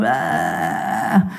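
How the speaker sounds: low, drawn-out "ah" groan; imitated groan, held long; mock newborn noise. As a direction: make a goofy low baby noise. Imitates odd-looking newborns.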